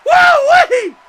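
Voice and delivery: high delighted whoop; excited whoop. Real, not acted. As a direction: whoop at the top of lungs. Cheer at corkscrew crossbody.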